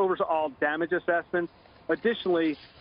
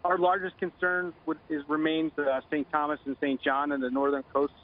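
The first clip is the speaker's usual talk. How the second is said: phone line; 6 semitones lower than usual. Real, not acted. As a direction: voice over a telephone line. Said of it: "Joining us now on the phone".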